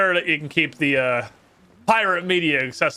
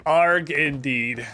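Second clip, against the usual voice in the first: slow pirate growl; 3 semitones lower, much slower than usual. Acted. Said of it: "Arg, as they say".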